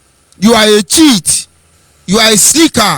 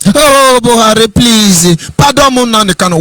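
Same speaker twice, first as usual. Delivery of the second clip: mock begging. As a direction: lightly parody a supporter pleading. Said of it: "They are begging Buhari".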